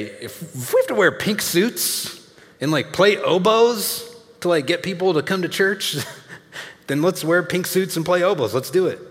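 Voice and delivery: high, loud, excited founding pastor; hammed-up pastor voice, pitched well up; Craig McIlvain. Founding pastor rallying the church, high and loud. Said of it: "used to say".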